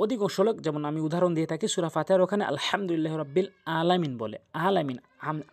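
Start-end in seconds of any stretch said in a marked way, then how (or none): 3.8-4.1 "আলামিন" begun with a plain glottal hamza, no throaty ain; hamza in place of ain. Shown as a demonstration. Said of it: "আইনের জায়গায় হামজা এনে উচ্চারণ করে". 4.7-5.0 mistaken "আলামিন" with a plain glottal onset; hamza in place of ain. Shown as a demonstration. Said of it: "আইনের জায়গায় হামজা এনে উচ্চারণ করে".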